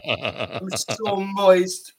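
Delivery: laughing slowly. Real, not acted. Laughing, crying tears.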